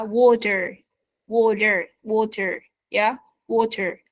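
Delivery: Water with a flapped T, almost a D. Shown as a demonstration. Teacher drilling Water with a flapped T. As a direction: say Water as wadder, T like a quick D. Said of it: "Almost a D".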